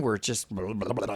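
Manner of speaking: mumbling blah sounds like bubbles; bubbly blah through regulator. Retold or imitated. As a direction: garble the words like open circuit bubbles. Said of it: "That's what it sounds like".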